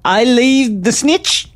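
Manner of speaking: slow, solemn will reading; slow formal reading. Acted. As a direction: draw it out formally.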